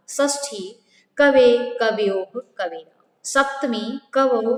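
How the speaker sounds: slow, careful, every form spelled out distinctly; slow pronunciation demo. Shown as a demonstration. Teacher slowly models the forms for the children, clear and careful. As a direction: say each case form slowly so the class can copy it. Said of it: "इसको एक बार मैं फिर से pronunciation कर लेती".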